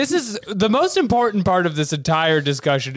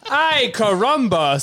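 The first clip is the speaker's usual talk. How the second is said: mock Gohan quote; 3 semitones higher, slower than usual. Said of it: "says Gohan".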